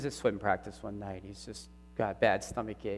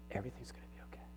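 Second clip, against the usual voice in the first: hushed quote; 12 dB quieter, much faster than usual. Retold or imitated. Son quotes God's voice.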